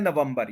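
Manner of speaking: नवंबर as nuh-VUM-bur, Hindi vowels; wrong local pronunciation. Retold or imitated. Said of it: "ये भी थोड़ा सा गलत है". (नवंबर का देसी उच्चारण "न-वम-बर")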